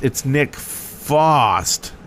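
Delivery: FOST slow and drawn out, with no R; corrected name. Shown as a demonstration. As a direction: stretch out Fost to set it apart from Frost. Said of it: "I said the, uh, original, uh, server name wrong".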